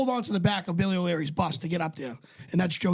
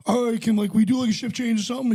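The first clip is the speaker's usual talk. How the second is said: louder mock announcement over a loudspeaker; raised-voice imitation of a radio check-in; loudspeaker call; 5 dB louder than usual. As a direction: call it out like someone on a PA. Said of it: "over a loudspeaker".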